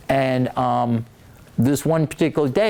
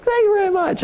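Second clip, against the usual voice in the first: much higher mock thank-you; hammed-up grateful coach voice, pitched way up. Coach thanks the writer for the note, mocked much higher.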